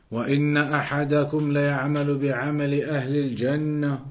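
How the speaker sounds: brisk, rapid Arabic hadith recitation; recited hadith. Real, not acted. Teacher recites the hadith to his students, quick and fluent. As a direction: rattle off the hadith text quickly.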